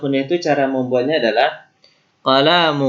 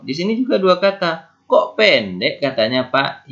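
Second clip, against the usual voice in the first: higher pupil voice puzzled by the word; higher, questioning pupil; curious student; 5 semitones higher than usual. Pretend. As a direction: act a student raising a question.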